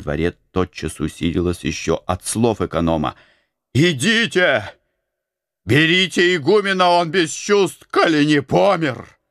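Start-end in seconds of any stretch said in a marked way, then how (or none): 3.7-9.2 high, loud urgent calling; rally the monks to carry him; urgent shout. A narrator's reading. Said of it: "вскрикнул Антоний". (тревожный призыв к монахам)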